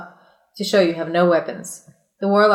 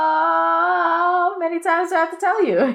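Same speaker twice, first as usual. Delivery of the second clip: scolding owl; 9 semitones higher than usual. Acted.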